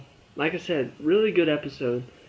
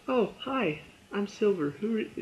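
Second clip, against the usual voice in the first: high, sugary put-on greeting; mock sweet girl; 7 semitones higher, 3 dB quieter than usual. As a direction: play the fake-sweet newcomer, pitched up. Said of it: "and she's like".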